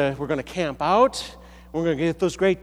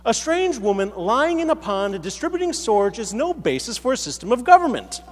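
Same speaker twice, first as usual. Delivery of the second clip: higher-pitched comic argument; protesting character; 5 semitones higher than usual. Acted. A subject rebuts King Arthur's claim, higher and mock-indignant. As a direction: argue back with rising, mock indignation. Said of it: "the character then responds".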